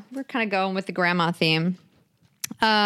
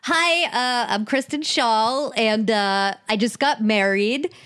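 a loose, lightly voiced quirky comedian; light celebrity impression, mostly own voice; Kristen Schaal impression. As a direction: play a deadpan quirky comic, barely changed. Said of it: "here's my shitty Kristen Schaal impression".

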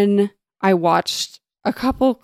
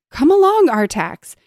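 high, loud coaxing call easing on the name; narrated cry of encouragement; urgent call; 6 semitones higher, 5 dB louder than usual. A narrator's reading. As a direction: call out to urge a horse on. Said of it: "cried Atreyu".

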